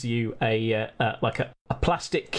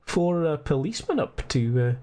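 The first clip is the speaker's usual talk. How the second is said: lightly Scottish curious gent; Scottish accent, curious. Acted. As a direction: fish for info in a Scottish lilt. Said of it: "he says".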